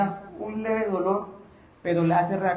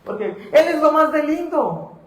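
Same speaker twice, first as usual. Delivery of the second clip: mock swooning girl. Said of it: "Y la persona".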